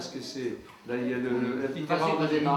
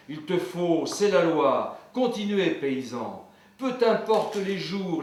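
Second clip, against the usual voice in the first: poem recitation. Acted. Farmer reciting his poem on the peasant's Sunday, declaimed verse. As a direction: recite with rhetorical questions rung out, then subside.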